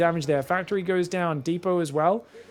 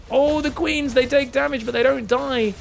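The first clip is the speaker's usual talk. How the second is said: excited; 7 semitones higher than usual. Real, not acted. Tense moment, Queens survive.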